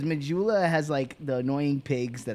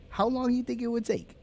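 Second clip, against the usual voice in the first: higher-pitched wondering question; musing question; 8 semitones higher than usual. Retold or imitated. Player posing a nuclear what-if, musing question. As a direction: voice a curious, high-pitched question.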